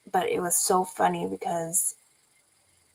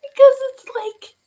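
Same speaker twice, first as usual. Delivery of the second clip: laughing; 9 dB louder than usual. Real, not acted. Still laughing.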